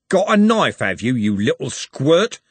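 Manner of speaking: threatening thug jeering at a smaller man; Andy sneering. Acted. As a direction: spit it at the little squirt. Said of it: "said Andy".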